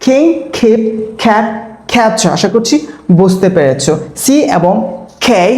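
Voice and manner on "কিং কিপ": কিং said with a breathy aspirated kh; teacher shows কিং with a puff of air on k. Shown as a demonstration. Teacher demonstrating aspirated কিং to students. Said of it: "sound".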